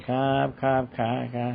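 high, honeyed yes-yes on the phone; sweet polite phone voice. Retold or imitated. Preacher mocking people who are sweet on the phone but not to parents, high and honeyed. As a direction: imitate someone sugary-polite to a caller. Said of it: "บางคนเนี่ยพูดโทรศัพท์นี่".

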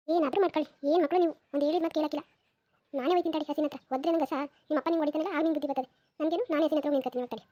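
fast scolding rant; grandma nagging quickly; exasperated grandma. Acted. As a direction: rattle off the scolding, fed up.

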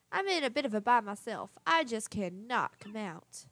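lightly voiced genteel lady, doting; fussy fond madam. Madam Flurry greeting little Punio, lightly voiced doting madam. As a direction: put on a touch of a grand madam.

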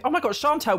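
high, outraged gasp at Chantal; real surprised cry; shocked squeal. Real, not acted. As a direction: caught her in my bed. Chantal in her bed.

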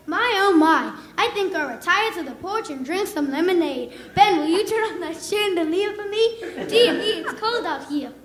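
put-on southern accent. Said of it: "She'd be like".

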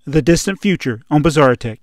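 loud, emphatic title announcement; announcer. Acted. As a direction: proclaim it like a show announcer.

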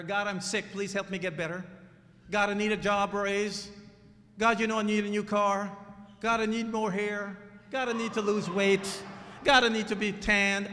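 lightly mocking greedy prayer; mock bellhop prayer. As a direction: rattle off demands to God. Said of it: "cosmic bellhop".

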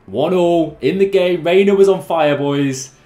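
loud, high burst of excitement; cheering the goal at full voice; excited shout. Real, not acted. Excited reaction to scoring.

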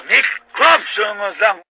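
slow, loud shouted insult; shouting. Real, not acted. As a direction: spit it out as a slow yell. Drunk rant, shouted insult.

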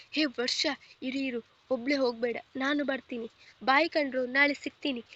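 husband calls after his wife and shouts bye to friends, loud; calling out. Acted. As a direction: raise the voice to stop her leaving. Calling after wife, then farewell.

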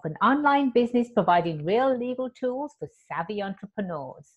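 even, lightly formal show-opening read; podcast host intro. Acted.

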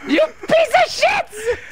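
exasperated rant rising to a high yell; rant, then pitch the last curse way up; pissed off. Real, not acted. Player fed up with food crates, pissed-off rant. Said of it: "I am so pissed off right now!".

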